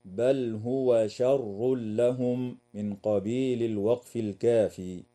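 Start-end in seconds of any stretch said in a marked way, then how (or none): 0.1-2.6 slow chanted recitation pausing at لهم; Quran recitation. Shown as a demonstration. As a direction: recite slowly and stop on لهم. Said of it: "ويجوز الوقف على قوله تعالى". (تلاوة بطيئة مع الوقف على لهم)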